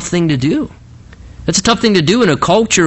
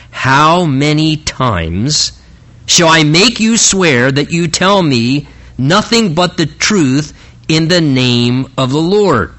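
slow, exasperated, word by word; irritated; slower than usual. Acted. King demands the truth from the prophet, irritated. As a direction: stretch it out as if tired of asking. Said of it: "you can tell by the very irritated response".

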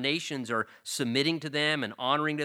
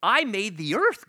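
I made the earth, higher and louder; stress on I; 8 semitones higher, 6 dB louder than usual. Retold or imitated. God reminding his people who made the earth, higher and louder. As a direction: hammer home I made the earth. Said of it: "I think that's the emphasis".

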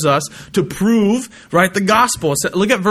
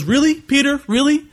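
incredulous; 9 semitones higher than usual. Acted. Jesus doubts Peter's bold promise.

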